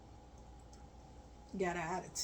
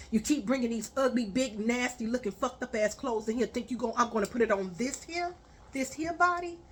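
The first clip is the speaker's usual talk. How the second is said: angry lecture. Retold or imitated. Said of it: "and I said".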